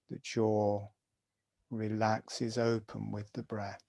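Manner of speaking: guided meditation. Acted. Teacher guiding students through jaw breathing, calm meditation voice. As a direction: talk them gently through each breath.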